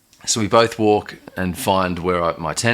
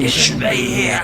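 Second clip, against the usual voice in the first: mock angry scream; 4 semitones higher than usual. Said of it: "he just starts screaming".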